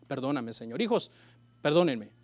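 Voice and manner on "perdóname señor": soft, low begging for forgiveness; quiet plea. Retold or imitated. The mother asks the Lord's forgiveness, soft and humble. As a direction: breathe out a humble apology.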